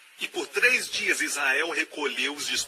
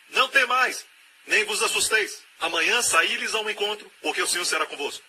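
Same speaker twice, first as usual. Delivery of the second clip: high, loud proclamation of God's word; proclaiming command; 6 semitones higher, 3 dB louder than usual. Acted. Preacher to his church, booming God's promise. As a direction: ring it out like a prophet.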